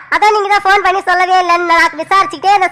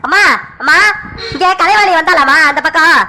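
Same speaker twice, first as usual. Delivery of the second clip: urgent call in a lightly lowered male voice; son Sakthi. Acted.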